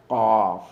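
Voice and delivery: Qaf with a click dropped in the back of the throat. Shown as a demonstration. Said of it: "Like something dropped in the back of your throat".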